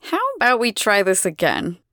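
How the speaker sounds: patient smile. Acted. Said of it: "she says with a patient smile".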